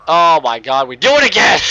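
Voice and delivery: excited outburst. Real, not acted. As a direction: yell it like you just crashed again. Crash in the race.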